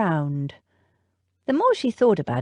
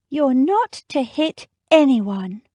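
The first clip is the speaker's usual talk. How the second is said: slow, firm, higher command; stern order; 7 semitones higher, 5 dB louder, slower than usual. Acted. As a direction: lay down the law.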